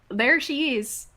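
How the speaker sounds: slow, tentative Wisconsin accent; attempted Wisconsin accent. Shown as a demonstration. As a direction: try out a Wisconsin accent on a line read. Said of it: "with a certain accent".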